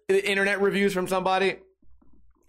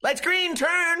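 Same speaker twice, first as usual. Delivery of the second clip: high, urgent barked order, much higher; mock nagging yell; 11 semitones higher, slower than usual. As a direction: nag the driver to go now. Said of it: "they'd be go".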